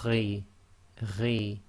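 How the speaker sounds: "ri" gargled, a little heavy; throaty, a bit full-mouthed; slightly heavy ghain. Shown as a demonstration. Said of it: "Slightly heavy".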